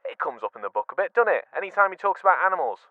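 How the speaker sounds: ordinary delivery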